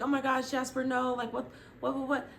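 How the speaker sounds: shocked panic. Retold or imitated. Friends shocked by spear.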